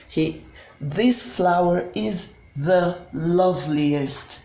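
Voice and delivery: slow, careful example sentences for learners; slow model sentences. Shown as a demonstration. Teacher modelling superlatives for students, slow and careful. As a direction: spell each sentence out slowly for the class. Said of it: "So it goes like".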